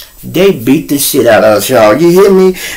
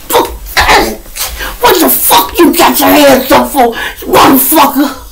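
mocking yell; 12 semitones higher than usual. Mocking friend's fighting stance.

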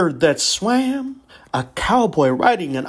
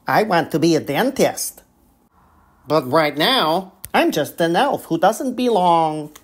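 christmas elf. Acted. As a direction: confess it like a lonely elf. Elf confides sadly.

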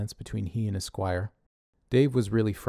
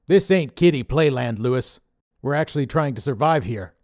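louder, gruff-voiced boss scolding; Dave's scolding voice; 5 semitones higher, 7 dB louder than usual. A narrator's reading. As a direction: play Dave the bossy leader, chewing him out. Dave lecturing Connor.

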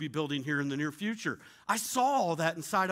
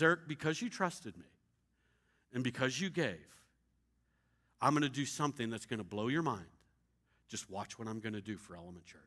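quiet voice of God; 7 semitones lower, 6 dB quieter than usual. Retold or imitated. God's voice speaking to him.

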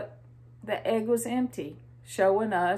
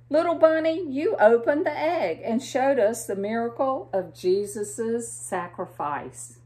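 chiming raccoon; 2 semitones higher than usual. Acted. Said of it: "chimes in little raccoon".

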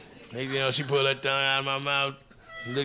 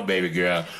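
deep sarcastic; 12 semitones lower than usual. Retold or imitated. Voice drops for one line.

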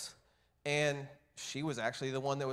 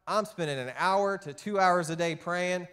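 mock annoyed; 4 semitones higher than usual. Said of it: "annoyed with God".

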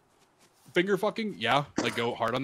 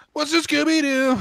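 creepy monster voice; 9 dB louder than usual. Acted. Creepy game voice.

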